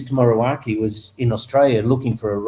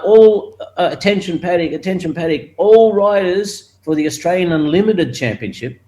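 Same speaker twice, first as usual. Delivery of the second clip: raised, higher announcer call; mock PA announcer; 5 semitones higher than usual. Track announcer calling riders to the grid, in a mock PA voice. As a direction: boom it out like the paddock PA.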